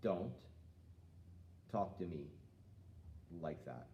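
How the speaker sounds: steady, calm, falling off to a low finish; calm and firm. Shown as a demonstration. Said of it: "we say it again".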